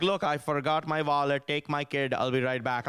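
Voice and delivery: lightly voiced Indian-accented dad; casual mock Indian-accent father; dad's Indian accent. Acting out dad leaving his kid.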